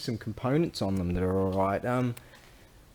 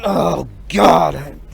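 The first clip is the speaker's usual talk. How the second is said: mock dismay; 7 semitones higher, 12 dB louder than usual. Recruit reacting to sergeant.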